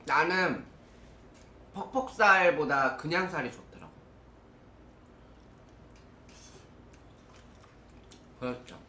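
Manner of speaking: chewing while talking; eating chicken mid-sentence; mouth full. Real, not acted. Seen 1: Holds chicken, lips pursed and working as if chewing, bites again near 2.1.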